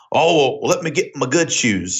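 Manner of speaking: imitating dad's slow country accent; dad's country drawl. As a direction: draw it out like a country dad. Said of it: "This is the way he said it".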